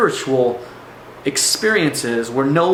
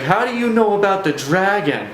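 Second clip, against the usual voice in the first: raised-pitch retold panic; higher, rattled question, lightly acted; mock freaking out; 5 semitones higher than usual. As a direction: act out someone freaking out, half in earnest. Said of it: "he's, like, really freaking out".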